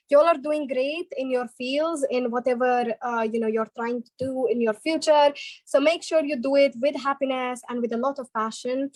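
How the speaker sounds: Scottish-accented greeting and praise; Scottish English pep talk. Shown as a demonstration. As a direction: speak to them in a Scottish accent.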